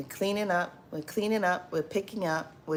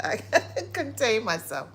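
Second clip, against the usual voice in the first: fast, laughing while calming down; 3 semitones higher, faster than usual. Real, not acted. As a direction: try to stop laughing. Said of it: "'cause I'm laughing".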